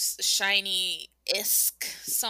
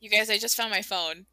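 excited shout; 2 semitones lower, faster than usual. Real, not acted. Excited announcement to group.

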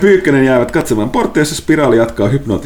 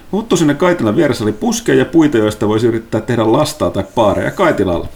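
game master narration; 2 semitones higher than usual. Acted.

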